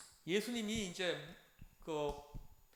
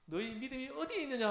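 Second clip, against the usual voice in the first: higher-pitched mock telling-off; imitated scolding; 6 semitones higher than usual. Teacher voicing Jesus to disciples, higher-pitched scolding. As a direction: act out a reproving question, falling at the end. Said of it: "하면서 막 혼을 내는 거예요".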